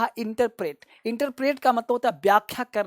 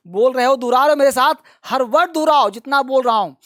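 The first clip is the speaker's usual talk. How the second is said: louder, pushing the class to repeat; urging students loudly; 3 semitones higher, 6 dB louder than usual. Real, not acted. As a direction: raise the voice and demand the class repeats.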